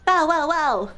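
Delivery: playful bow-wow-wow; punchy run of mock barks; dog bark. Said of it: "Can you make dog noises with me?".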